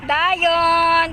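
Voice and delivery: long, drawn-out name call; calling a dog. Real, not acted. Vlogger calls the dog Dayon, drawn-out call. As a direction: stretch the name as you call.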